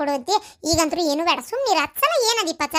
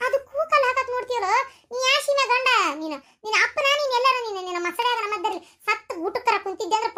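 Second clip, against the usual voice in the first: berating husband; 5 semitones higher than usual. Acted.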